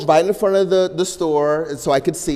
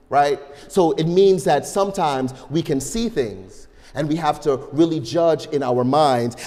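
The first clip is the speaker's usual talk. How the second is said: ordinary talk, nothing marked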